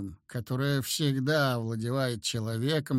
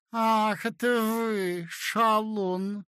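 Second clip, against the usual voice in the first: a higher, lightly voiced lady, absently smiling; absent-minded smile; 6 semitones higher, much slower than usual. A narrator's reading. A young wife greeting her visitor with an absent smile. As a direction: tease him lightly, distracted. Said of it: "встретила она меня с рассеянной улыбкой".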